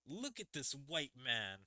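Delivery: retold pointed jab, pitched above the neutral take; pointed remark. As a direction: imitate her singling someone out. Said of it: "there was a pretty big difference".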